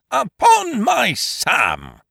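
repeated outraged cry at the landlord. A narrator's reading. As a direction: cry it out again in disbelief. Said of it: "cried Eucridge".

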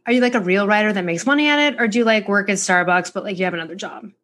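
mildly condescending, a bit quick; patronizing quote. Retold or imitated. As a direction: lightly mimic a patronizing stranger. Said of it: "Very patronizing, said like that".

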